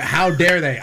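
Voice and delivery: drawn-out, hammed-up indignation; mock outrage. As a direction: play at being scandalized, slowly. Mock outrage after Greta Thunberg reference.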